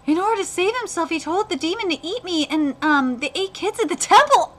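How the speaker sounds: earnest backstory narration; animated manga reading; story read-aloud. Acted. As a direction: read on with mounting concern. Reads character's backstory.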